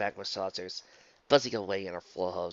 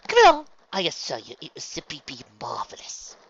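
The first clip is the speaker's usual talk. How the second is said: higher, louder character voice; coaxing socialite; 5 semitones higher, 7 dB louder than usual. Acted. Rarity urging Luna into the spa, coaxing. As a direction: gush with assurance, pitched up.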